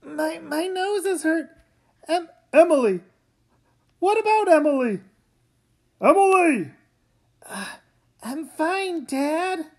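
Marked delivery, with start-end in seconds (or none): 2.1-6.7 panicked calling. Acted. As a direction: cry her name in alarm. Parents calling daughter after crash.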